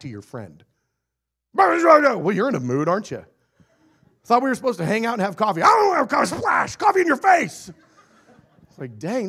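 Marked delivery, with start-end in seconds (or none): 1.5-5.6 higher, louder, fast sarcastic jab; hammed-up snippy friend. Acting out a friend quarrel. 5.6-7.7 much higher, loud comic shout; hammed-up furious shriek; mock angry outburst. Angry friend throws coffee.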